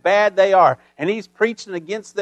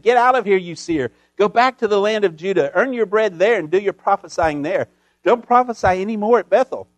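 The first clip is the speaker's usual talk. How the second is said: chaplain's angry charge. Retold or imitated. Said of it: "nailed him with these words".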